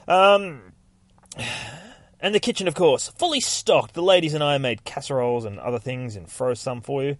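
a hint of the busy church lady proud of her casseroles; eager housekeeper. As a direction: fuss over the new priest a little. Housekeeper shows rectory kitchen.

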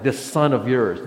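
"This son of yours" said slowly, leaning hard on "This"; older brother sneering at the father: slow, pointed "This son of yours"; stress on this son of yours. Shown as a demonstration. Pastor showing the brother's disowning words: slow, pointed stress on "This". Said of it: "Notice that".

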